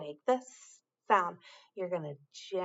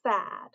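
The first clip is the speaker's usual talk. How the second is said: "Sun" with a long hissed s up front; stress the s. Shown as a demonstration. Teacher shows children the first sound, stretched s. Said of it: "Listen for the s sound at the beginning".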